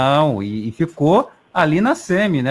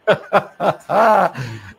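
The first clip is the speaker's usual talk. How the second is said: hearty laugh; 3 semitones higher than usual. Real, not acted. Laughs at guest's joke.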